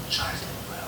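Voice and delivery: hushed reveal. Real, not acted. First take, whispered.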